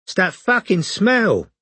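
high, slow, dazed complaint; stoned neighbour. A narrator's reading. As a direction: whine it, still stoned.

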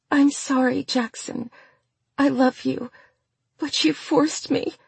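small, high quivery voice; high and tremulous, playing pitiful on the phone; quivery whisper. A narrator's reading. Mistress to her lover on the phone, quivery and pitiful. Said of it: "she whispered into the phone with a quivery voice".

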